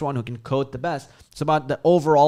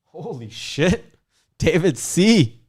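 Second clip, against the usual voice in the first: laughing; slower than usual. Real, not acted. Laughing at a viewer comment.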